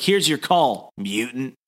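understated contempt on the last word; derogatory. Acted. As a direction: imitate an officer saying it as a put-down. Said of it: "he's saying it in such a derogatory way".

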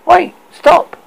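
very high, loud shout. Acted. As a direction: yell to halt them. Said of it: "the crowd turned".

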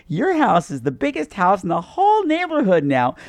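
hammed-up big-smile neighbour; manic fake smile. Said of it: "big smile".

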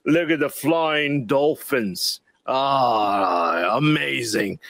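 slow, sarcastic awe; mock wonder. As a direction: gush over it, mockingly. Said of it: "I was like".

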